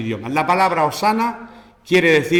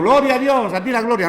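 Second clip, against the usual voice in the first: mock praise; 7 semitones higher than usual. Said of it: "Gente que piensa que están diciendo".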